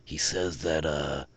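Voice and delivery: low, quiet muttering of a nervous local; muttering sewer dweller. Acted. Nervous sewer dweller warning his friend, quiet mutter. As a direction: mutter it under your breath like he's spooked. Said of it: "you hear the, like, muttering of".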